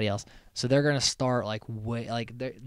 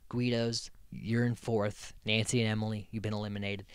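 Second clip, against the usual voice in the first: host announcement. Retold or imitated. Recapping the show, imitating the host's elimination verdict. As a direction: read the verdict like a solemn host. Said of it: "Phil comes out and he's like".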